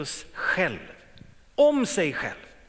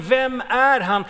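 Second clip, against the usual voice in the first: crowd's question; 5 semitones higher, 6 dB louder, slower than usual. Retold or imitated.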